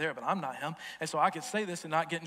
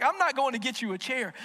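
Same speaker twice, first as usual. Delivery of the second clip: incredulous friend; 8 semitones higher, 5 dB louder than usual. Retold or imitated. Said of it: "You're like".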